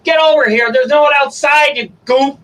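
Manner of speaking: calling a pet, bright and high; high dog-calling voice. Real, not acted.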